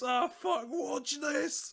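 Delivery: high-pitched mock yell; imitated shout. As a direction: imitate the reckless driver calling out. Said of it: "where he just shouts".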